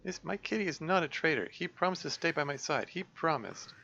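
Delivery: put-on high, pleading girl's voice. Girl defending her kitty against the dark voice, high and pleading. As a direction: beg them to believe you.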